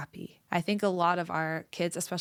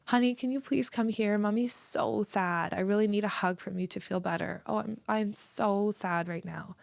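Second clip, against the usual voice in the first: hammed-up self-pity, stretching every word; mock sad mommy; 3 semitones higher than usual. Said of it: "I'm like".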